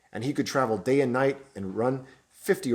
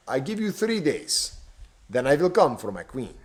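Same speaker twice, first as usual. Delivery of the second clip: villain ultimatum; 3 semitones higher than usual. Acted. Stranger giving the bishop three days, menacing. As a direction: deliver a cold deadline.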